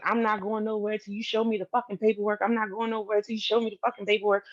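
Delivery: fast, insistent mimicked rant; rapid-fire quoted ultimatum; retold angry demand. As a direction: imitate him refusing to budge, words rushing out. Retells man's angry refusal.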